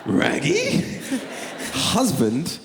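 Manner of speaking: mock stunned squeal; shocked disbelief. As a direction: gasp it out like a stunned kid. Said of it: "And I was like".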